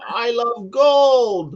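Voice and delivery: high, slow, laughing British voice; mock British accent. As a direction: put on a posh British "I love gold". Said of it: "we sit here and we go".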